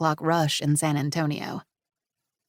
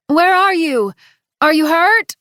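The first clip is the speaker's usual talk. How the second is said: loud, higher call into the grass; 11 semitones higher, 11 dB louder than usual. A narrator's reading. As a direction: call out to someone unseen. Calling to a hidden child.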